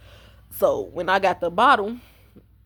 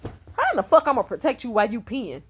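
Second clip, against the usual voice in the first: retold exasperation, slightly raised pitch; irritated; 3 semitones higher than usual. Irritated friend answering a silly request for protection. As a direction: tell him off, baffled and fed up. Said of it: "that shit irritated me".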